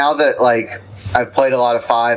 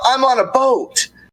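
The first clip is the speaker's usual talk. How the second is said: mock very high, yelled-out shout; 13 semitones higher than usual. Speaker shows what gets yelled after missing something obvious, retelling a yell. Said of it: "I just yell".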